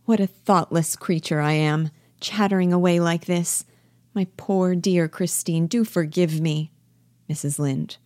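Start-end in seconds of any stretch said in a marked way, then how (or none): 0.0-6.7 earnest, mildly self-reproaching apology; understated earnestness; serious. Acted. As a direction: turn serious and apologise sincerely. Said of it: "Stops suddenly and speaks seriously".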